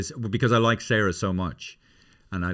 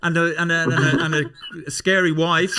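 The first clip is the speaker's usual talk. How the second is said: much higher, louder teasing rebuke; mock scolding; 7 semitones higher, 3 dB louder than usual. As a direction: scold him playfully in a high voice. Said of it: "the two of us are going".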